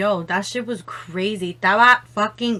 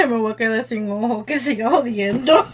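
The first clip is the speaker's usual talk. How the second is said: laughing; 4 dB louder, faster than usual. Real, not acted. Laughing aside in Spanish.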